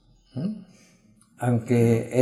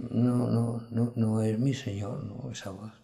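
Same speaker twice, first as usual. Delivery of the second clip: sheep refusing quietly; 6 dB quieter than usual. Retold or imitated. Sheep turning away from a false shepherd, quiet refusal. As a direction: trail off softly as you turn down the impostor. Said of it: "las ovejas del Señor dicen".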